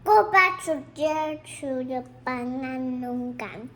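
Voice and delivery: eating and talking at once; mouth full. Real, not acted. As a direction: speak through a mouthful. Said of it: "can't be eating and talking".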